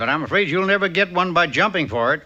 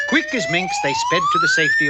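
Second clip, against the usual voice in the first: sped-up voice; 3 dB louder, faster than usual. Acted. Narration sped up comically.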